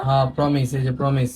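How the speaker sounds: low-pitched, placating assurance; reassuring promise. Acted. Husband promises doubting wife a gift today, reassuring.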